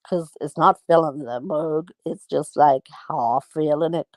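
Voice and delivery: lightly put-on Northern Irish accent. Shown as a demonstration. Storyteller explaining a wee half a cup, Northern Irish accent. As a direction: tell it with a Northern Irish lilt. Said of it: "in the Northern Ireland accent".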